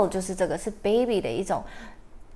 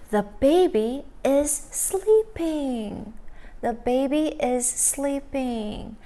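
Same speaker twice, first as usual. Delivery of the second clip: put-on little girl voice; 4 semitones higher, slower than usual. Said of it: "little girl说什么".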